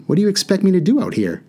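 put-on a boy throwing up his hands, rushing the words; lightly voiced boy losing patience; exasperated boy. A narrator's reading. Haroon complains.

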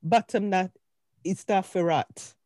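slow, unsure Jamaican reading; attempted Jamaican patois. Shown as a demonstration. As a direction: pick through written Jamaican patois haltingly. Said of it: "can you please do the Jamaican".

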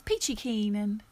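botched attempt at an Australian accent; bad Australian accent. Doing an impression of Rizzo, badly in an Australian accent. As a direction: have a poor go at Australian. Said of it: "with an Australian accent that didn't go well".

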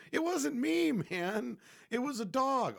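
high, loud mock pleading denial; yelping that the dog did it, not him; loud protest. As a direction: shout your innocence to the whole store. Protesting to imagined shoppers.

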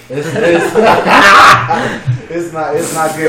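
breaking into giggles mid-sentence; laughing too hard to finish. Real, not acted. Laughing through the punchline.

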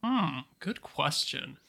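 slow, soft musing hmm; thinking hmm. Real, not acted. Host ponders a listener question.

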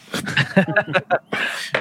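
breathless giggling through hiccups; hiccup giggles. Real, not acted. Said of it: "I've laughed myself into hiccups".

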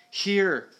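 high-pitched urgent call; shouting. A narrator's reading. Rescuer dropping the locket to Peter, shouting. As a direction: call out as you toss something down. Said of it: "he shouted".

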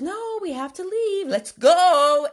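high, insistent order building to a loud finish; imitated urgent demand, loud at the end; breaking into firm command. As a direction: drop the politeness and order them out. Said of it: "broke the sing talk and started speaking in solid words".

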